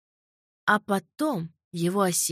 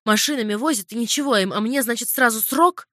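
обиженная жалоба; 4 semitones higher, 5 dB louder than usual. Acted. Орехов жалуется на несправедливость.

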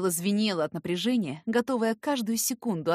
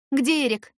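demanding; 7 semitones higher, 6 dB louder than usual. A narrator's reading. Heroine confronting her friend.

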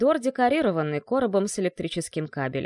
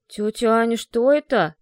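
put-on louder, alarmed boy's question; shocked; 2 semitones higher, 6 dB louder than usual. Slavka seeing Anya's bitten legs, shocked and loud. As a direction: recoil at the sight of the wounds.

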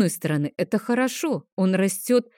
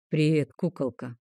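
softer, lower, a touch of a sly wink; winking greeting; 3 semitones lower, 4 dB quieter than usual. Acted. Dragon greets the girl, soft sly wink. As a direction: greet the girl like a rough charmer. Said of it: "подмигнул ей он".

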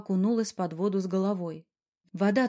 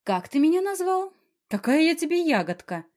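much higher, louder indignation; indignant outburst; 8 semitones higher, 4 dB louder than usual. A narrator's reading. Emilia, outraged at the pet name, shoots back high and loud. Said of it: "возмутилась она".

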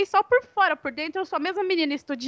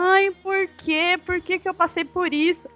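tearful plea; 4 semitones higher than usual. Retold or imitated. Crying to her mother about the rejection, mild retold tearful plea. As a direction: retell a mildly tearful "why me". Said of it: "assim, eu chorei".

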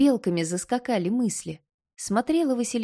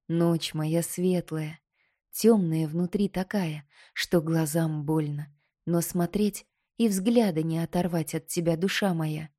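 tender murmur. Acted. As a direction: linger over each endearment. Koschei's tender declaration.

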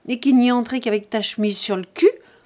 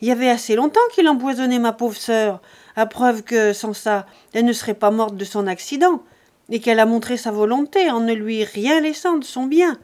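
violent abusive yelling; 2 semitones higher, 7 dB louder than usual. A narrator's reading. Lise screaming abuse at Jean on the doorstep, furious. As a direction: hurl insults, hands on hips. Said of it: "elle gueulait, plus violente, plus injurieuse".

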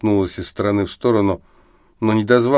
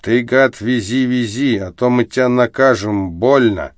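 put-on louder drunken threatening; drunken threat; 3 semitones higher, 3 dB louder than usual. Drunk Viktor threatening the taxi driver in a daze. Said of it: "в трансе вдруг загрозился".

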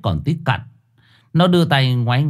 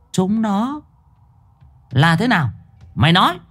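higher sharp questioning voice; suspicious demand; 9 semitones higher than usual. A narrator's reading. Thơm demands answers from the woman, sharp and higher. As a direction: press her for the truth.

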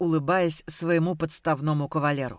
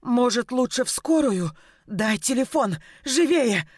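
demanding in pain; 4 semitones higher than usual. Acted. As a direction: bark orders while doubled over. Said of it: "потребовала Мила, корчась от боли".

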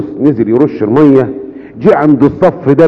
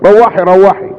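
higher, gentle insistence; Pope Kyrillos reassuring; 7 semitones higher than usual. Acted. Pope Kyrillos reassuring the weeping mother, higher. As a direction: tell her kindly it was a mistake. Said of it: "قال لها".

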